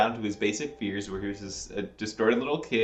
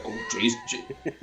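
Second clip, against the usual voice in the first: very high falsetto squeal; mocking the film's dialogue in falsetto; mock dramatic; 5 dB quieter than usual. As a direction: squeak it like a cartoon damsel. Mocking the movie's line.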